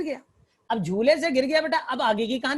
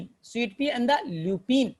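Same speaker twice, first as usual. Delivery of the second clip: very slow, each word apart; slow dictation repeat; much slower than usual. Shown as a demonstration. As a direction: drill it into memory. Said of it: "teacher repeats names to memorise".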